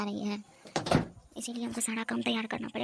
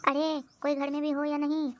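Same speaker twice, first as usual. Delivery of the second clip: calling out; 4 semitones higher than usual. Acted. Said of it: "चिल्ला चिल्ला के मेरा गला फटने को चला है".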